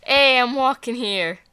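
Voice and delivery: put-on light New York cabbie accent. New York accent tossed out about the Bronx. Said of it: "It was a good New York accent".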